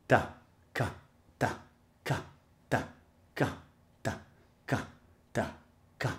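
slow, evenly spaced ta and ka; slow syllable drill. Shown as a demonstration. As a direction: spell each syllable out slowly with gaps. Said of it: "So let's start it slow".

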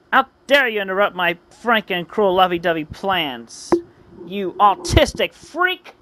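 mock-furious villain; hammed-up indignation; acted outrage. Villain angrily berates the hero.

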